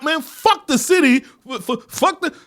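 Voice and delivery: high, loud dismissal; exasperated outburst. Acted. Fan urging Spider-Man to quit, loud and exasperated. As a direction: write the whole town off loudly. Acted exasperated advice to the hero.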